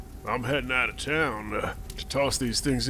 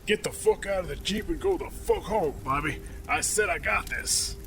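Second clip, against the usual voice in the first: irritated captain. Acted. Captain dismissing Bobby from the jeep, irritated. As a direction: send the underling packing.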